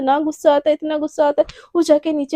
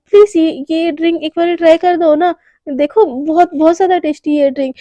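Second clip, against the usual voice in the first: louder, coaxing insistence; pushy pleading; 3 semitones higher, 6 dB louder than usual. Acted. Anaya pressing Garima to try the spiked drink, loud and coaxing. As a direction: press her hard to take the drink.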